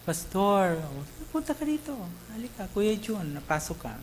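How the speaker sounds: imitating sobbing plea.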